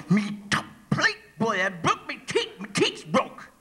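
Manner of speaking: mushy words through a toothless mouth; mumbling without dentures. Acted. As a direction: mumble as if your top plate just snapped. Speaker still mumbling, teeth broken.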